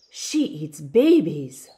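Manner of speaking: put-on spooky campfire-tale threat to wide-eyed kids; hissed warning. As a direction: scare the children with it. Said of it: "her voice hissed as she unfolded the legend".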